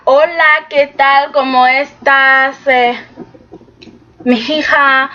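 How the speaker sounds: lightly played Spanish greeting, easy and casual; Spanish phrases. Shown as a demonstration. Vlogger showing the Spanish she wants to hear, lightly played. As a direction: toss out some casual Spanish. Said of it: "a bit more of Spanish".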